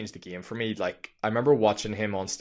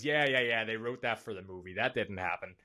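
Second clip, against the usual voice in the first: dismissive attempt at an American accent, trailing softer; Jordan Belfort; 5 dB quieter than usual. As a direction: brush it off in a dodgy American accent. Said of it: "I don't know what that accent was".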